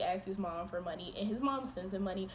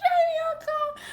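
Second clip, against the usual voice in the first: laughing; 12 dB louder than usual. Real, not acted. Laughing recounting.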